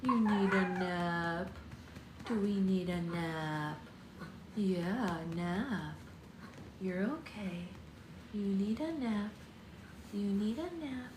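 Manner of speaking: slow, gentle nap-time hush; soothing. Real, not acted. Settling baby for nap.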